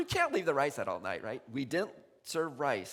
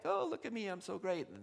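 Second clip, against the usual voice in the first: mock smugness; 4 semitones higher than usual. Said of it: "Today it's all like".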